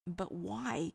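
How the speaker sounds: leaning on "why", drawn out a little; stressed WHY. A narrator's reading. Cass questioning Dean's motives, "why" stressed. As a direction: put the weight on "why". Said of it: "Cass stressed".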